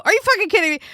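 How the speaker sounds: high-pitched mock outrage; retold indignation. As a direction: exclaim it in disbelief, acting offended.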